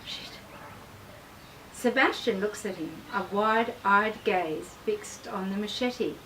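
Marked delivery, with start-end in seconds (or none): 0.0-0.4 a soft, hushed curse to himself; soft shocked curse; muttered under breath. A narrator's reading. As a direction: swear barely aloud, almost swallowed. Realising the man wasn't there.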